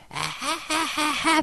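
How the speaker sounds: very high, drawn-out mock laugh; imitated party laugh. Drunk girl chatting with men, high imitated laugh. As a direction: cackle slowly, high and mocking.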